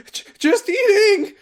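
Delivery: squeaky high words through a mouthful; mouth full. Retold or imitated. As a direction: talk round a bite of food, laughing. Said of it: "She's got a f-, mouth full of food".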